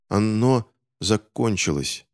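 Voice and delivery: slow, halting, frozen words; stammering from cold. Acted. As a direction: force it out through chattering teeth. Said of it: "заикаясь от холода". (медленно, заикаясь от холода)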